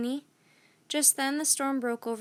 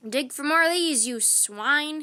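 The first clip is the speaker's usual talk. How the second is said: contemptuous order; 3 semitones higher, 6 dB louder than usual. A narrator's reading. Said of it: "he said".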